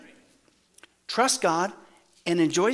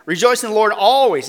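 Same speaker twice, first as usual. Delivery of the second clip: "Rejoice in the Lord always" read out louder, ending on "always"; correct reading, proclaimed; 2 semitones higher, 6 dB louder than usual. Shown as a demonstration. Preacher corrects his joke misreading, proclaiming "Rejoice in the Lord always" louder. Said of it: "wrong translation".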